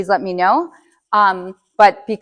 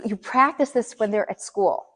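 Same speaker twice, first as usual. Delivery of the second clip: usual speaking voice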